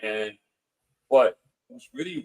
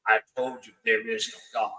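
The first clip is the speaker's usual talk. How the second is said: ghost woman; 4 dB quieter than usual. Retold or imitated. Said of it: "And she goes".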